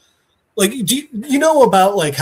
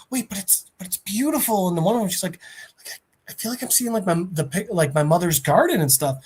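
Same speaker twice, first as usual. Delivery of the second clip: soft, wondering imitation; acted quiet marvelling; entranced awe; 5 dB quieter, faster than usual. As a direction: drop to a hushed, dreamy voice. Entranced passengers hear beautiful song.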